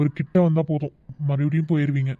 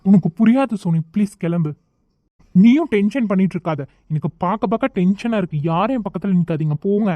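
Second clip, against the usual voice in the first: agitated, irritated dismissal; stressed and mildly heated; tense. Acted. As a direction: wave everyone away, on edge. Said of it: "ஏன் சரண் இப்படி tension ஆகுற?".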